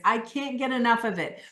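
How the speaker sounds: lively, insistent craving; emphatic, animated. Shown as a demonstration. Coach modelling a craving for the group, emphatic. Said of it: "when you say it emphatically".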